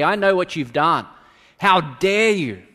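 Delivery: angry prophet confronting the king; condemning outburst. Retold or imitated. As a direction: hammer David with blame, slowing on how dare you. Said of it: "burst through David's door and simply say".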